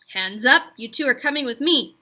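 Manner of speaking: loud, barking order; a gunman shouting at two boys from behind; shouted command. A narrator's reading. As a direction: freeze them with a shout. Man ambushes boys with rifle.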